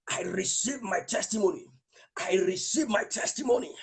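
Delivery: preacher leading the crowd in prayer. Real, not acted. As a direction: lead them line by line in prayer. Leads congregation in prayer.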